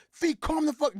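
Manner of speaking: high, urgent hush-up; friend calming him. Retold or imitated. Bot urging Fee to calm down, urgent high voice. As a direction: cut him off before he blows up.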